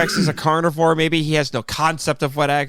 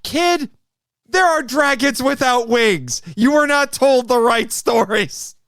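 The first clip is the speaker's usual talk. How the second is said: higher, emphatic correcting; mock scolding; 5 semitones higher, slower than usual. Talking back to the kid about dragons, mock scolding. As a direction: slowly lecture a child, with mock exasperation.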